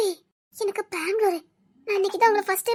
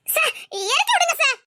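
high plea breaking into laughter; laughing plea; 8 semitones higher than usual. Acted. Girl carried off giggles while begging to be put down.

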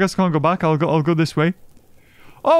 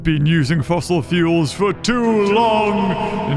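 mock trailer voice; 3 semitones lower, slower than usual. Mock movie trailer line.

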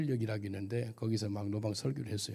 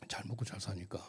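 whispered aside; 3 semitones lower, 6 dB quieter than usual. Real, not acted. Bitter aside on comfort.

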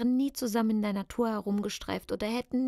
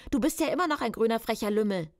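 furious shout; 4 dB louder, faster than usual. Acted. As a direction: spit the insult out fast. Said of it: "schrie ich wütend". (schnell, laut und wütend)

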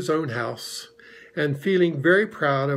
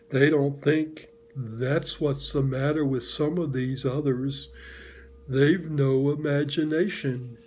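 gloomy Eeyore. Acted. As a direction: drag each word like a sad old donkey. Held Eeyore voice.

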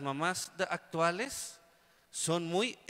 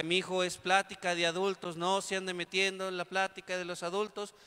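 scolding mother. Retold or imitated. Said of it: "mamá nos regañaba y decía".

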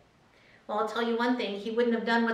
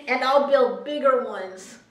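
louder, emphatic declaration; rich fool's boast; 5 dB louder than usual. Acted. Reading the rich fool's plan to the congregation, loud and boastful. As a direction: proclaim the bigger plan with gusto.

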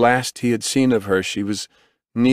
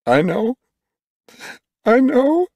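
high, rising, louder on the repeat; anguished cry; 5 dB louder than usual. A narrator's reading. Grieving father to the medic, anguished outcry. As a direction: cry it out, climbing higher and louder.

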